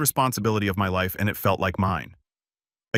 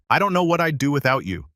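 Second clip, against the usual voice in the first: higher, mildly gushing thanks; lightly acted gratitude, lifted in pitch; grateful; 5 semitones higher, 3 dB louder than usual. A narrator's reading. Sister thanking her brother who took her in, mildly gushing gratitude. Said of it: "At first, she was grateful".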